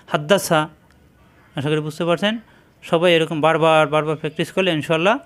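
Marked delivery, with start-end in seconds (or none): 0.1-0.6 হাদ্দাসা with a constricted, throaty first H; pressed throat H. Shown as a demonstration. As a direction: squeeze out the H that starts হাদ্দাসা. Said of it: "কণ্ঠনালীতে চাপ দিয়ে". (হাদ্দাসা কণ্ঠে চাপ দিয়ে উচ্চারণ)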